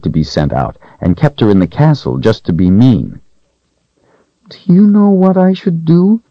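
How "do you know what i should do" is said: put-on higher, wistful little girl; a frightened young servant girl, hushed and hoping. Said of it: "she asked the doll".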